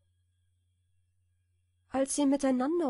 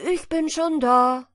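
loud, higher triumphant call; 6 semitones higher, 9 dB louder than usual. A narrator's reading. The hedgehogs call to the exhausted hare, loud and taunting. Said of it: "sagten der Igel oder seine Frau".

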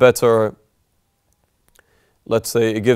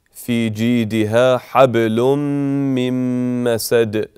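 Quran recitation. Shown as a demonstration. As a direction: recite it like a qari in prayer. Recites the verse.

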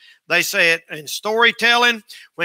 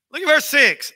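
higher, pressed repeat of the verse; emphatic repeat; 6 semitones higher than usual. Shown as a demonstration. Preacher repeating the verse for the congregation, higher and emphatic. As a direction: say it again, pitched up to drive it home.

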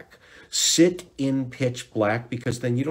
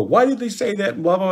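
higher, louder anxious worry; fretting inner voice; 8 semitones higher, 5 dB louder than usual. Retold or imitated. Mimicking a racing anxious inner thought. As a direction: voice the nagging worried thought. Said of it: "all those internal thoughts".

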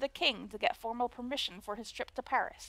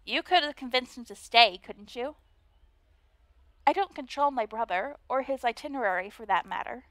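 put-on Valley Girl voice. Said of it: "a Valley Girl voice".

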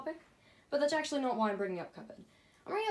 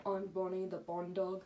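Bonnie voice; 3 semitones lower than usual. Retold or imitated. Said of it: "and Bonnie says".

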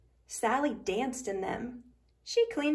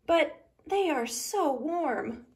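grumbling; 4 semitones higher than usual. Acted. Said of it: "Sally grumbled".

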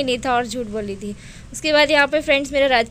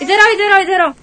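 calling out; 7 semitones higher, 8 dB louder than usual. Real, not acted. Mother calling daughter over.

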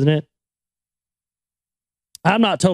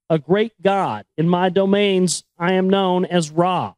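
put-on measured, solemn reading of an old chronicle; story narration; 3 semitones higher than usual. Host reading the Sumerian chronicle to listeners, solemn narration. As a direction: read it like an ancient epic. Reading ancient text aloud.

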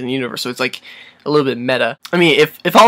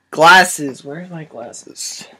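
put-on young person faking old. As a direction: fumble around like a doddering grandpa. Fumbling for glasses like old person.

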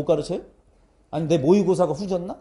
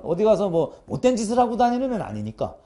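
usual speaking voice

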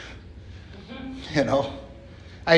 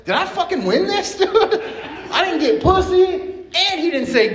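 indignant disbelief; 12 semitones higher, slower than usual. Retold or imitated. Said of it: "I was like".

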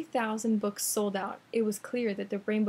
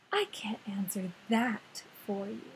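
whispered starfish voice; soft unvoiced whisper of a starfish; 4 dB quieter than usual. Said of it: "said the starfish".

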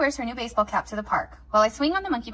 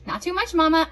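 put-on girl voice; 6 semitones higher, 6 dB louder than usual. Girl at haircut.

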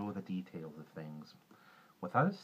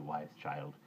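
tender; 5 semitones lower than usual. Acted. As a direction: settle the words down gently. Juniper calming the girl.

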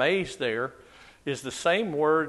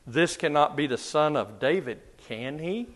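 a wary, doubtful "This cannot be the son of David, can he?"; cautious question. Shown as a demonstration. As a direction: ask it tentatively, half hoping it's true. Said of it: "they say it cautiously".

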